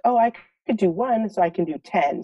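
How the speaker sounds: imitating son. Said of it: "he's like".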